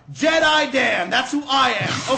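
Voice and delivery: slow shouted grand proclamation; Jedi proclamation. Acted. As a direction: announce yourself like a heroic Jedi. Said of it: "I've had enough of this role playing".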